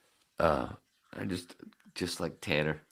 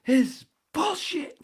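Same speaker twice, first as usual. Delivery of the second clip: slow, loud, much higher scream; 9 dB louder than usual. Retold or imitated. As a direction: scream the protest. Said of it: "And I started screaming".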